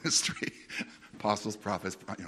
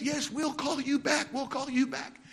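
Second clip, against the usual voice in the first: mock phone rep; 12 semitones higher than usual. Mimicking the company's phone promise.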